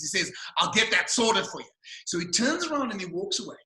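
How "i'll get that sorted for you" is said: brisk Aussie waiter reply; broad Australian accent. Retold or imitated. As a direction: imitate an Australian taking the order. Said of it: "he spoke with a very broad Australian accent".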